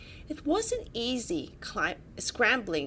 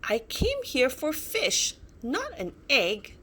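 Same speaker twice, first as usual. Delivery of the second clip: higher, sharp annoyed reply; snapping; 4 semitones higher than usual. Acted. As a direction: snap at the pesky little dinosaur. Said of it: "snapped Bella".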